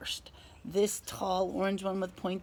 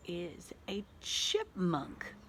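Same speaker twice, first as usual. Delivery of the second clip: whispering; slower than usual. Acted. Whispered reveal.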